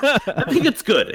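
drawn-out doubtful praise; hedging. Real, not acted. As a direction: say it slowly, not quite meaning it.

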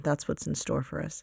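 tired, fading morning voice; voice giving out. Real, not acted. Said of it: "there goes my voice again".

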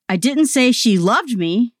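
didn't punched, slowed, rising end; stress on DIDN'T. Shown as a demonstration. Demoing stress shifts to a listener, didn't stressed. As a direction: deny it with didn't. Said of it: "say the following sentences".

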